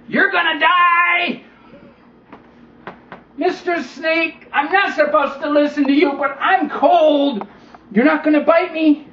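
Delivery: put-on high, slow hesitant boy; cold boy hesitating before trusting the snake, slow and high; boy's voice. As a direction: give in reluctantly like a cold kid. Boy gives in.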